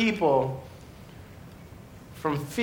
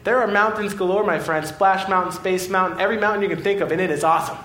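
put-on can you believe this kid, bursting with it; mock-outraged preacher listing Disneyland joys to a boy; incredulous; 4 semitones higher than usual. Incredulous rant at the little boy.

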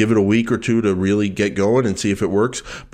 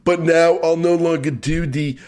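high, slow mock American "dude" accent; Australian faking American accent; 7 semitones higher, slower than usual. Co-host gives up his Australian impression, hammed-up fake American accent. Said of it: "I'll just do an Australian trying to do an American".

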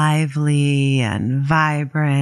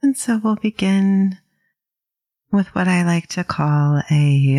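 calm, unhurried meditation guide with long pauses; gently paced mindfulness instruction; guided meditation. Acted. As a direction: ease listeners into settling, leaving space between phrases.

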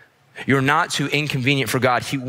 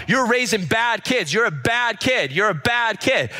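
retold scolding; 9 semitones higher than usual. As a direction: imitate a relentless, pitched-up accuser. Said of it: "She's following us the whole way".

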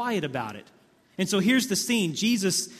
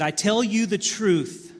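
slow, louder and higher, each word weighed; emphatic solemn declaration; 4 semitones higher, 5 dB louder, slower than usual. Acted. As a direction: proclaim it as the weightiest truth. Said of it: "That is emphatic".

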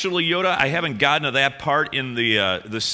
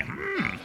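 Yoda hum; 14 semitones higher, 10 dB quieter than usual. Retold or imitated. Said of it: "the voice of Yoda".

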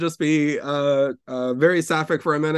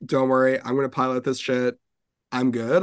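cool chill. Retold or imitated. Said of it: "cool, chill way of".

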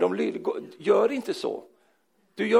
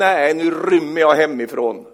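mock-angry, loud and drawn-out declaration; angry child; 6 dB louder than usual. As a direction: imitate a cross kid storming off. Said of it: "Hon var så sint på oss". (spelat sint barn)

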